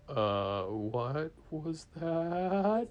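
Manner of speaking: what on earth was that; wary bewilderment. Acted. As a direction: draw it out, baffled and uneasy. Puzzled boaters react to a bump.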